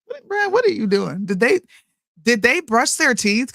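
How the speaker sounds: husband's questioning check-up, pitched high; lightly mocking a husband quizzing the kids; imitating the husband. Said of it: "my husband be like".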